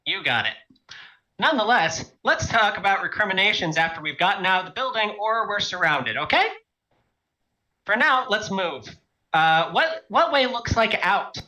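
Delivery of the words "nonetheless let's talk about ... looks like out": raised, pressing urgency; urgent. Acted. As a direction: hurry everyone along. Urgent in-character command.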